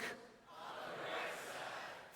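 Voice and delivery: slow breathy whisper. Shown as a demonstration. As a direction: breathe it out slowly. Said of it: "Let's say it again".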